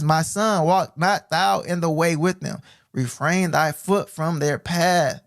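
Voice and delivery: slow, solemn reading again; measured preacher's reading; scripture reread. Acted. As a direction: lean on the warning, slowly. Rereading verse slowly.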